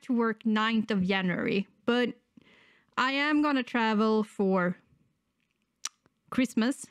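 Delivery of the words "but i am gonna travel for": normal talking voice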